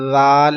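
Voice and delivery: زال with a soft th as in "this", no whistle; lisped, unwhistled first sound in زال; soft dhal. Shown as a demonstration. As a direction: start زال gently with tongue tip to teeth. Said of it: "یہ کیا ہے؟".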